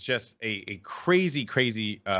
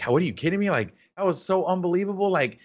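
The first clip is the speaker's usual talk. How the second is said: imitating excited friend; 8 semitones higher, 3 dB louder, faster than usual. Quoting Tashi's excitement.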